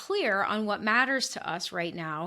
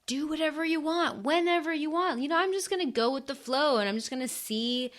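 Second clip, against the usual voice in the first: airy carefree hippie, pitched higher; breezy go-with-the-flow drifter; 4 semitones higher than usual. Retold or imitated. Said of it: "channeling my, like, inner hippie voice here".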